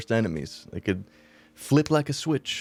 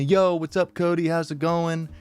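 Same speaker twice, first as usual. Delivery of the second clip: upbeat, higher-pitched friendly hello; super nice greeting; 6 semitones higher than usual. Retold or imitated. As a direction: greet him like a good buddy, voice lifted. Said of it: "He's usually super nice to me".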